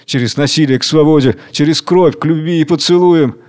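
mildly mournful declamation; resigned, measured sadness; sorrowful. Acted. Worker sums up the path for the king, sorrowful. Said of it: "Рабочий печально говорит".

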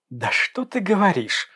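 sarcastic exclamation jumping high; exclaiming. A narrator's reading. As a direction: throw it back at him, mocking. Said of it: "воскликнула девушка".

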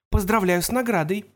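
bright, excited congratulation; cheerful exclamation. A narrator's reading. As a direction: call it out cheerfully. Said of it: "жизнерадостно воскликнула она".

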